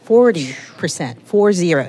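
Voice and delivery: FORTY hit hard, then "Four zero" spelled out; emphatic repetition. Real, not acted. Economist drives the wage figure home to host, stressing "Forty". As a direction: repeat "Forty percent", punching "Forty", then "Four zero" digit by digit. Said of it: "You have to say it three times".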